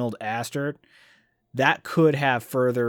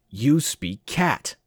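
surprised nobleman; much slower than usual. Acted. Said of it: "Benedict said".

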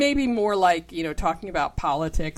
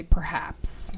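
breathy whisper of a polite "Perhaps."; 2 semitones lower than usual. Shown as a demonstration. Whispering a polite way to disagree. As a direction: say "Perhaps." under your breath, no voice.

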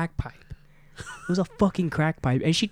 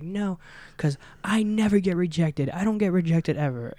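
put-on entitled girl voice; 5 semitones higher than usual. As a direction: play a snooty drunk girl. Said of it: "And she's like".

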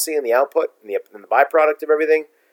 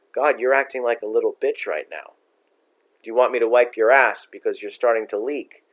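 softer, calm mock put-down; 3 semitones lower, 4 dB quieter than usual. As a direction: stay calm and let the insult land. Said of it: "by saying in a calm voice".

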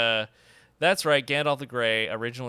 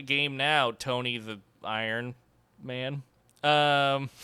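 ordinary talk, nothing marked

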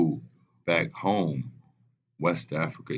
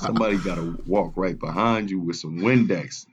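laughing; 2 semitones higher, 6 dB louder than usual. Real, not acted. Laughing through a funny story.

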